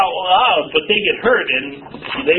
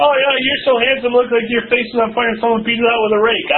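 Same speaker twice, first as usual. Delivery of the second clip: higher-pitched teasing put-down; mock jesting insult; 4 semitones higher than usual. Kidding someone about their looks, mock jeering. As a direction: rattle off the jibe as a joke.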